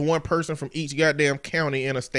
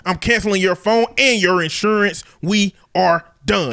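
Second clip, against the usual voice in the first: racist country daddy; 2 semitones higher, 3 dB louder than usual. Acted. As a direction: deliver a final cutoff as a country father. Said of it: "racist country daddy voice".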